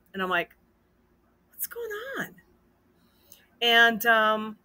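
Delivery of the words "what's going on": hushed, voiceless acted question; retold whisper. Wife asks about trouble behind the glass, whispered. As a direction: whisper it as a puzzled aside.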